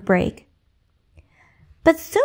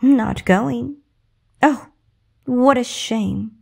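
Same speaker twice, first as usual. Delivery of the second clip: mocking sympathy; slower than usual. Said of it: "with her mocking smile".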